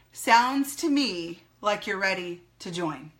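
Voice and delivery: slow, measured statement, "join" falling to a full stop; firm close, no question in "join"; authoritative statement. Shown as a demonstration. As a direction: say it slowly and let "join" drop. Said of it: "I say it like that".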